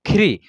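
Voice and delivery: "ख्री" with री joined onto aspirated ख; pronunciation demo. Shown as a demonstration. Teacher showing learners how री joins ख, pronunciation demo. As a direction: show ख्री as kh plus ree. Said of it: "उसको पढ़ेंगे ख्री".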